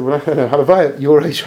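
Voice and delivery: slowed down and laughing through it; chuckling warmly as he repeats. Retold or imitated.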